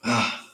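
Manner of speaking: a long tired yawn. Real, not acted. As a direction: yawn it out, drawn and breathy. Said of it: "And I am yawning".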